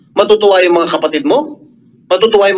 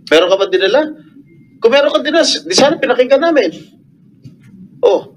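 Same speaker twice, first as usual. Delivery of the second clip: raised voice; 2 semitones higher than usual. Real, not acted. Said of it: "raising my voice".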